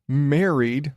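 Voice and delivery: MARRIED set apart with a rising end; air quotes. Acted. Podcaster doubting the ghost wedding, MARRIED held apart in air quotes. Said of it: "again, big ass air quotes".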